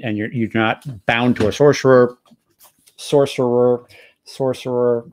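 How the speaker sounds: sorcerer said over and over, reaching for the r's; repeated sorcerer attempts. Shown as a demonstration. The GM retrying the word for the players, repeated attempts. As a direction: keep drilling the word sorcerer. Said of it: "I'm just gonna keep trying".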